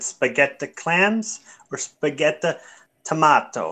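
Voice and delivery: a hint of an Italian waiter's accent. Retelling a French waiter, hint of an Italian accent. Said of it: "that's an Italian accent".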